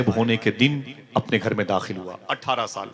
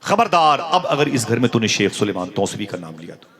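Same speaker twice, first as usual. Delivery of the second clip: angry scolding; 3 semitones higher, 3 dB louder than usual. Acted. Wife scolding her husband over the pir, angry shout. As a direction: throw him out of the house, shouting. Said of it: "उसने डांट के कहा".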